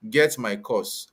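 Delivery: usual speaking voice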